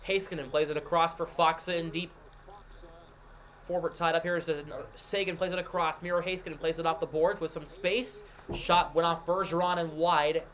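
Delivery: brisk hockey play-by-play call; live play-by-play. Acted. Streamer sets up the Bruins game for chat in live play-by-play. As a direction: call the action as it happens.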